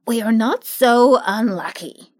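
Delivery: lightly voiced cheerful scarecrow; a hint of a pleased straw ruler. Scarecrow as new ruler addresses his friends, pleased.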